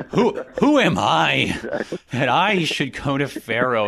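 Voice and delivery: Moses pleading, high, loud and slow, leaning on I; a startled "who am I" pushed up high and loud; emphatic I. Retold or imitated. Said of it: "the emphasis ... that emphatic I".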